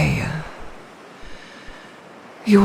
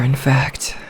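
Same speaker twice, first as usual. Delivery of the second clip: whisper; 2 semitones lower, 3 dB quieter than usual. Acted. Creature murmurs aside to captive.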